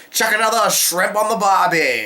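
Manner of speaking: a clumsy mock Aussie voice; horrible Australian accent. Quoting a friend's joke in a bad Australian accent. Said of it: "that was a horrible Australian accent".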